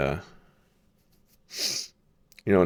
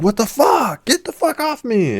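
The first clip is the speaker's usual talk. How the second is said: high, re-enacted startled protest; indignant outburst. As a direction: act out fending off a pickpocket. Re-enacts catching a pickpocket.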